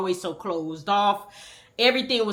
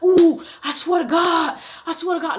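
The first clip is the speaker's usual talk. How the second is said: high, whiny upset little-brother voice; brother crying; 8 semitones higher, 4 dB louder than usual. Retold or imitated. Brother running up to his sister, whining high. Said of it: "And he like".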